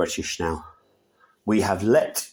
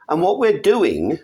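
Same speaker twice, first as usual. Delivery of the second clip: rising pitch, pounding each repeated "need"; heated rant; 8 semitones higher than usual. Real, not acted. Ranting to viewers about Britain, higher and heated. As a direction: build the rant higher line by line, hammering the point. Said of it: "that's end of rant for today".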